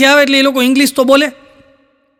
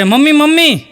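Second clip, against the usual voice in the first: put-on child calling mom; 4 semitones higher than usual. Child calling his mother.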